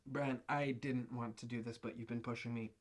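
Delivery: low, slow, hushed delivery; reluctant dismissal. Acted. Boss reluctantly fires his employee, low and hushed. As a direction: let it sink softly into near-whisper.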